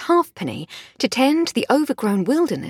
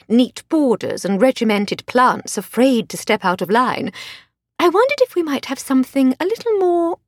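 higher, refined English lady; posh lady voice; 3 semitones higher than usual. Acted. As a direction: play the genteel lady of the house. Voiced Lady Hardcastle dialogue.

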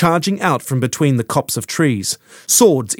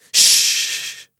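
calm hush. Acted. Phaedra hushing Quintana and the baby in the mud, calm hush. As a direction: soothe the screaming baby. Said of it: "Phaedra said, calmly".

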